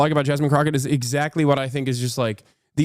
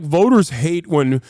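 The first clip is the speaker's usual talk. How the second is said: mocking whine. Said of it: "you're over here being like".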